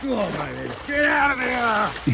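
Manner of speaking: high, loud cheer; excited send-off. Real, not acted. Angler cheering the released carp away, excited shout. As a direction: whoop it off as it swims away.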